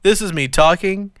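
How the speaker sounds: robot voice, even and flat; computer voice. Pretend. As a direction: speak like a computer. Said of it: "my computer voice".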